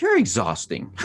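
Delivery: loud, fed-up wife; mock exasperated shout. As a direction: throw it out as a loud exasperated jab. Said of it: "She's like".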